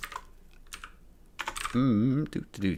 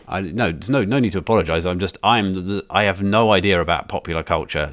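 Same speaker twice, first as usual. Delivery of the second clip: usual speaking voice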